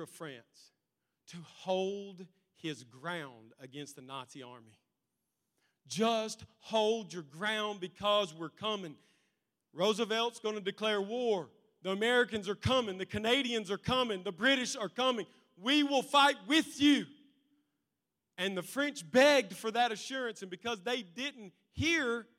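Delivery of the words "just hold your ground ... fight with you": rousing plea. Retold or imitated. Churchill pleading to France.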